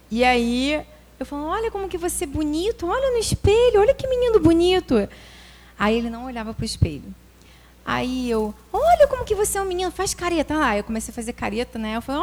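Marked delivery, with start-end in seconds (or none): 1.5-5.1 put-on coaxing a child. 8.7-10.7 put-on coaxing a child.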